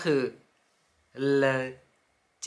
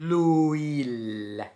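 l'huile drawn out slowly as lu-il; slow teaching l'huile; slow, syllable by syllable. Shown as a demonstration. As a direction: sound out l'huile slowly for the class. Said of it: "ถ้าออกเสียงช้าๆ นะคะ".

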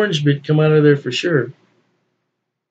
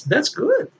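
put-on high, slow little-old-lady voice, sweetly pleased; grandmother's voice; 11 semitones higher, 3 dB quieter, slower than usual. Grandson imitating his late grandmother sipping the beer, high and slow. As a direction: play the grandmother tasting and approving. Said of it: "and say".

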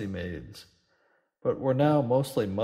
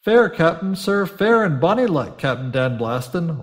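high, loud, hurried pleading; frightened haste; 6 semitones higher, 10 dB louder than usual. A narrator's reading. Terrified landlord hastily answering the roaring captain. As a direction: blurt it out in panic. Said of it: "interjected with frightened haste".

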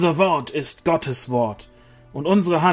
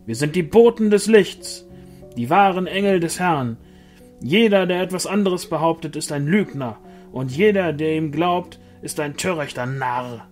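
loud, higher, commanding angel voice; booming proclamation; 5 semitones higher, 5 dB louder than usual. A narrator's reading. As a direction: proclaim it over the whole square. Angel declaiming to the mob.

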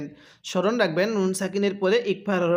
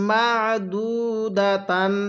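drawn-out chanted recitation; slow melodic Quranic chant; much slower than usual. Shown as a demonstration. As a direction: recite it like a tajweed teacher. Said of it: "কিভাবে পড়ব?".

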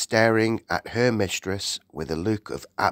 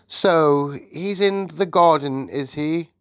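smiling a little; 7 semitones higher, 4 dB louder than usual. A narrator's reading. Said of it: "smiling a little".

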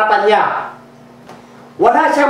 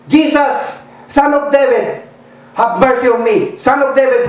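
retold shout; 3 semitones higher than usual. Blind man shouting over the crowd to Jesus, high cry. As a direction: cry out even harder for mercy. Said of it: "But he shouted all more".

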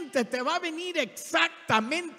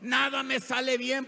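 mock complaining; 3 semitones lower than usual. Preacher imitating someone who only complains, mock moaning. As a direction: complain like someone stuck in bad luck. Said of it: "Si te la pasas nomás quejándose".

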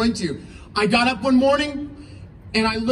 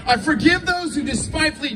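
prayer. Shown as a demonstration. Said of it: "speak out loud right now and say".

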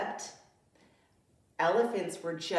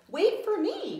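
higher, louder breathless cry; panting; 12 semitones higher, 6 dB louder than usual. Acted. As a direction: call after her, out of breath. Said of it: "panted Little Lion".

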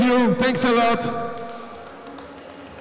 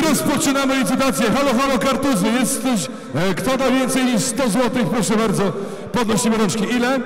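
auctioneer; 3 semitones higher than usual. Real, not acted. Opens the auction.

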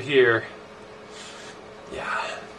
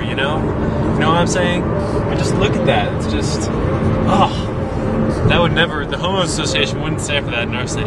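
dry mock praise, deadpan; fake-admiring the scenery, tongue in cheek; sarcastic.

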